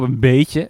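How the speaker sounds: "beetje" picked out with emphasis; stress on beetje. Real, not acted. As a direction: lean on "beetje". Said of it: "met nadruk op".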